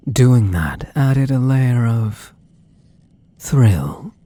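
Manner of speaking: breathy whisper on the word. Acted. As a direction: whisper it like a secret. Teasing captive about the thrill.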